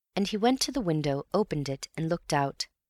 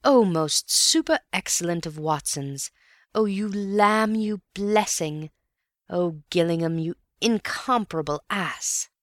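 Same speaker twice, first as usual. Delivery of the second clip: gushing delight; 2 semitones higher than usual. Acted. Antony gushes over the discovery.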